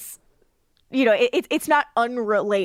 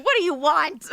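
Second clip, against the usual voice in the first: annoyed; 5 semitones higher than usual. Retold or imitated. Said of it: "Like, you know".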